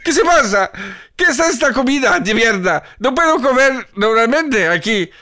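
a snake complaining in Spanish; angry snake. Acted. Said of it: "il a l'air très énervé".

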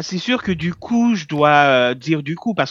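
put-on accent from France by a Québécois; Québécois doing a French accent. Shown as a demonstration. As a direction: imitate a French speaker. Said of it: "avec l'accent français".

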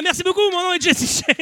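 high, loud thanks to the crowd; shouted sign-off. Real, not acted. Comic closing his set to the audience, shouted. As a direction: call it out over the room.

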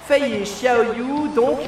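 lively play-by-play calling the match; excited sports commentary. Acted. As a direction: call the action like a live commentator.

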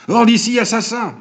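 high-pitched narrated outcry; yell. A narrator's reading. Goludja throws out the murderous barber, high contained yell. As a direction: cry out with pitch leaping high, volume held in. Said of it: "hurla monsieur Goludja".

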